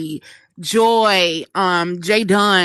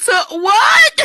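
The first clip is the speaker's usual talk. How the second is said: high, loud, laughing "to what"; stunned shout; 7 dB louder than usual. Retold or imitated. To her boss, who asks her to pass the mantle: shocked laughing shout. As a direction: blurt it out in shocked disbelief, half laughing. Stunned at being asked to leave.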